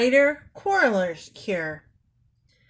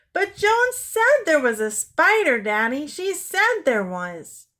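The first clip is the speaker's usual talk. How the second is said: put-on high, loud childish insistence; whiny plea to Daddy; insistent child; 8 semitones higher, 5 dB louder than usual. A narrator's reading. Anne insists to Daddy, high whiny voice.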